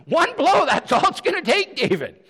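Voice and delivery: high, loud, insistent urging; acted fervent coaxing that drops on the name; urgent goading. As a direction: egg a leader on to strike. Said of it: "his men urge him".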